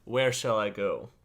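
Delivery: slow, stately request with long pauses; grand character voice. Acted. Player asks Opalia to be guide, slow stately character voice. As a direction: speak formally, phrase by phrase. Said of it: "developed this whole character".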